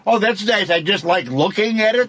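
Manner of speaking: mock a kid who's happy just looking; mock calm kid. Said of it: "Kids don't say".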